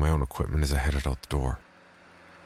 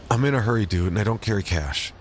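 dismissive; 5 semitones higher, 3 dB louder than usual. Acted. Narrator brushing off beggar.

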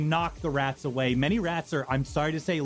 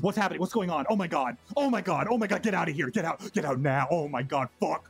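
panicked man. Acted. Panicked NPC after growth removed.

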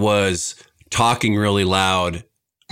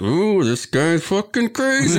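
mock shocked bystander; 10 semitones higher than usual. Imagined onlookers reacting.

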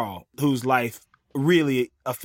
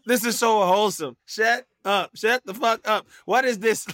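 mock gushing; 7 semitones higher than usual. Mock overwhelmed by cute video.

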